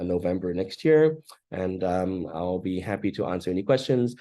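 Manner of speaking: just-woken-up morning voice. Real, not acted. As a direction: voice not warmed up yet at dawn. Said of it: "Apologies for my voice".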